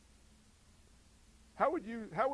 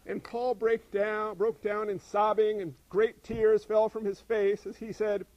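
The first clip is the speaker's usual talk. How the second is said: mock sobbing plea; 7 dB louder than usual. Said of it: "It doesn't say".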